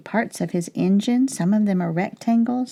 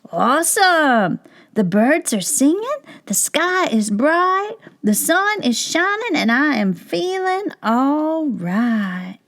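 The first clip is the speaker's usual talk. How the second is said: much higher, excited exclaiming; delighted squirrel; 8 semitones higher than usual. Acted. Squirrel thrilled by the sunglasses, much higher excited voice. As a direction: burst out with wonder.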